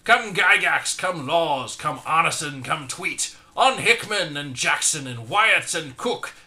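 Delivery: high, loud roll call of the team; rally them like Santa calling reindeer; calling the team of authors by name, loud and high. Acted.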